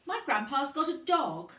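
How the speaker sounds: put-on a little girl who can't hold in her excitement; excited child. A narrator's reading. Lucy telling her teacher about Grandpa's dog, high and excited. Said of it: "Lucy told Missus Kelly".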